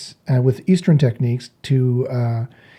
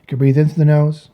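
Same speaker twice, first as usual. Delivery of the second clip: softer, calm instructing voice; guided meditation; 7 dB quieter than usual. Real, not acted. Meditation teacher guiding listeners to breathe out, softly guiding. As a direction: talk them gently into breathing.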